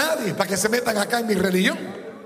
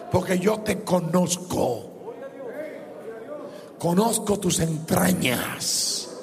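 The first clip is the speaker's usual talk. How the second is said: voz de Dios; 4 semitones lower, 3 dB quieter than usual. Acted. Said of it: "Y le dice a ellos".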